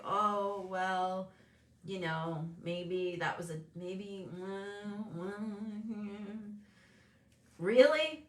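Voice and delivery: wavering, unsure of her own vision; hesitant self-doubt. Retold or imitated. Mom doubting her plan to expand, hesitant. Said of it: "And I'm kinda like".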